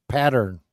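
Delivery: "pattern" said with a curled lip. Shown as a demonstration. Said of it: "with the lip curl".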